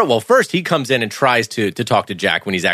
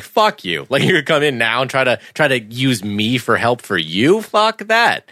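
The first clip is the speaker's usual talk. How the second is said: annoyed outburst; 3 semitones higher than usual. Retold or imitated. Jack brushing off the DEA.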